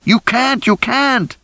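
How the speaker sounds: very high, panicked repetition; near-screamed pleading; desperate shriek. A narrator's reading. Rosie begging them to stay.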